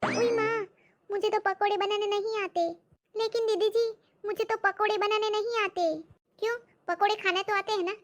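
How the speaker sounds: the maid panicking that she can't cook; high, fretful maid; dismayed maid. Acted.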